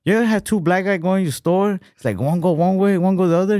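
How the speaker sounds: put-on hammy stand-up Asian accent; Asian comedian accent. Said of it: "He's like".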